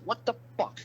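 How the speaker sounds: high-pitched imitated outburst; the cop's disbelieving yelp; mock cop outrage. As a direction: squeal it like the furious cop. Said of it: "That cop got so mad".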